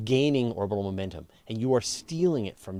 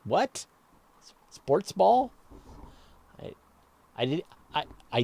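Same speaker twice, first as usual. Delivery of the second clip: pitched-up mock incredulous what; mock bafflement; 7 semitones higher than usual. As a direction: play dumb about sports ball. Asked to do sports commentary.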